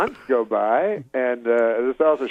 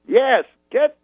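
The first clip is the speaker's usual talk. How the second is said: high, very slow Cosby orders; Cosby instructing manager, impression; 12 semitones higher, much slower than usual. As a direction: hand out orders slowly up high. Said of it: "He goes".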